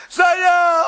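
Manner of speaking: high, loud reply from the pit; drunk man answering. Acted.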